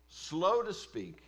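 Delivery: drawn-out stress on slow; deliberate, slowed reading; slow emphasis. Shown as a demonstration. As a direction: stretch the words to slow them down. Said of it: "dwelling on scripture phrase".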